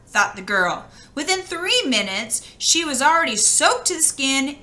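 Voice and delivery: lively read-aloud voice for a fairy tale; storybook reading. A narrator's reading. Reading a fairy tale to children, in a lively storytelling voice. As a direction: tell it like a bedtime story to children.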